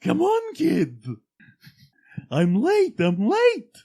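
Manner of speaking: loud, very high manic cry; hammed-up frantic storybook voice; Mad Hatter. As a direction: shriek it in a frantic hurry. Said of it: "That's like the freaking Mad Hatter".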